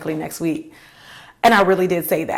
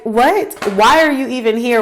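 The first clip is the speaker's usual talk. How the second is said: annoyed disbelief; 4 semitones higher, 4 dB louder than usual. Retold or imitated. Inner reaction, annoyed disbelief.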